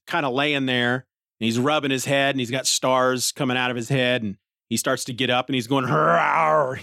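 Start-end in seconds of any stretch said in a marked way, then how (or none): 5.9-6.7 dazed grunt. Retold or imitated. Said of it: "He's making that noise".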